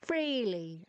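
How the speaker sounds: stretched mock Irish-American twang, swooping down; imitating sister's accent. Teasing baby sister about her favorite word, mock Irish-American accent. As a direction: tease with a drawn-out Irish-American lilt. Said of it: "I bet you say".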